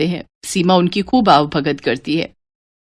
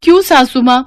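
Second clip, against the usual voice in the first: higher, plaintive question; pleading bride; 6 semitones higher than usual. Acted. Bride asking mother-in-law why, higher plaintive. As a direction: ask why, wheedling.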